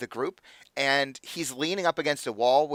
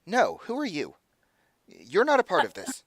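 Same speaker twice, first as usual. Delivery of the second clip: a hint of a stern officer, higher; stern lieutenant; 5 semitones higher than usual. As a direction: shoo the stranger off with authority. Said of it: "She says".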